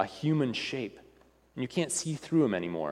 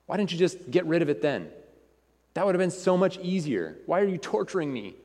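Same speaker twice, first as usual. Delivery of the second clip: pleading ghostly man; 4 semitones higher than usual. Acted. Ghostly man pleading, making excuses.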